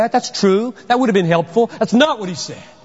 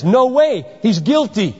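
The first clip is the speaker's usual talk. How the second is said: emperor's loud overrule; 6 semitones higher than usual. Retold or imitated. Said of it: "the emperor says".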